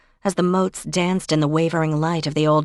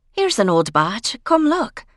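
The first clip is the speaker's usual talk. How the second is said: calling out; 6 semitones higher than usual. Acted. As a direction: shout it across a big room. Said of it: "Gillian called out from across the room".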